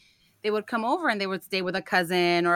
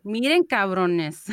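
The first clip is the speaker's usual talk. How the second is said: mock scolding; 5 dB louder, slower than usual.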